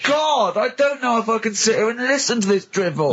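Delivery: exasperated outburst. Real, not acted. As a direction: cut him off in disbelief. Protests at the monkey story.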